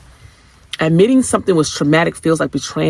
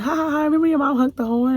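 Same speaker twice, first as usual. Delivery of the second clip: mock mocking laughter; 13 semitones higher, faster than usual.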